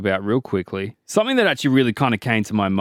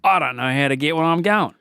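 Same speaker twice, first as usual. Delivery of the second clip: broad Aussie; 3 semitones higher than usual. Pretend. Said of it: "the accent is".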